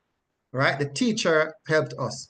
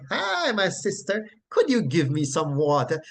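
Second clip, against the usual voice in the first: lightly acted bubbly, friendly greeting; bubbly Jesus. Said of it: "bubbly personality and he's engaging".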